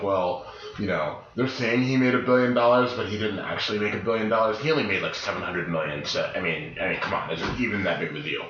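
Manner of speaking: put-on lightly done Valley Girl; dismissive Valley Girl quote. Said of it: "I love when you do your Valley Girl voice".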